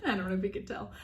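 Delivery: giggling through nervous words; shy laughing confession. Real, not acted. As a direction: laugh off the camera nerves. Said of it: "when I get on camera, I'm very nervous".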